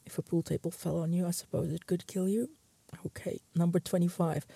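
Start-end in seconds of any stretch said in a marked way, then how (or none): 3.0-4.5 whispered, softer. Real, not acted. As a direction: whisper it to keep from laughing. Fighting laughter between jokes.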